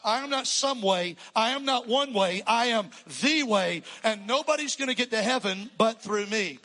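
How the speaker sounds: loud, emphatic voice of Jesus declaring; voicing Jesus. Jesus answering his disciples, loud and commanding. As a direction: proclaim it with full authority. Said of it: "And Jesus said".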